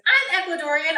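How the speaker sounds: put-on mildly high, perky white-girl voice; white-girl bartender. Retelling the bartender's announcement, mock white-girl voice. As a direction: lightly imitate a bubbly bartender. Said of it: "You sound very white".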